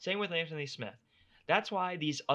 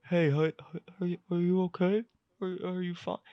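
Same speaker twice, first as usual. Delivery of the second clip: fast, louder put-on doctor voice; mock doctor; 5 semitones higher, 4 dB louder than usual. Host mocking the doctor checking a bloodied fighter, hurried mock doctor voice. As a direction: hurry through the checkup like a clueless doctor.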